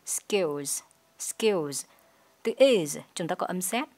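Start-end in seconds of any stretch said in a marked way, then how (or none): 0.1-1.9 SKILLS ending in voiced z; final z sound. Shown as a demonstration. Teacher models plural ending, voiced z on SKILLS. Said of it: "chúng ta sẽ đọc là z".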